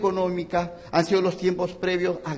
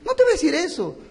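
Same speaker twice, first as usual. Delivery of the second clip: laughing; 9 semitones higher, 4 dB louder, faster than usual. Real, not acted. Laughing rebuttal of own joke.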